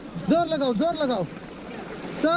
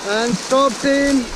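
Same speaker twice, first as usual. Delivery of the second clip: shouting orders over battle; 3 semitones higher than usual. Real, not acted. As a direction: call it over the roar of water. Guide calling commands through rapids.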